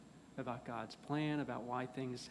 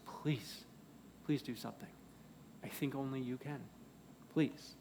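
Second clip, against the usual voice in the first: understated, quiet plea; begging; 6 dB quieter than usual. Acted. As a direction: beg softly, with pauses between appeals. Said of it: "he starts begging Jesus".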